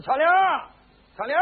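put-on old servant calling for the maid; shouted summons. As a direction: call her name out sharply, twice. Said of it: "老头在那喊了一嗓子".

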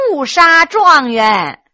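drawn-out, deliberate mocking jab; slow punchline. Maid landing her jibe at the scholar, slow and pointed. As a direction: spell out the punchline slowly.

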